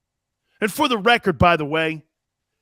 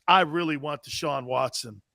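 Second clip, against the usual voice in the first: mock GM line; 7 semitones lower, 7 dB quieter than usual. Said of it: "Why would I go like this?".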